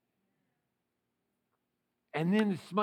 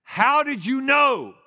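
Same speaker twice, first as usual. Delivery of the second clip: son asking; 5 semitones higher, 10 dB louder than usual. Retold or imitated. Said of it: "he said".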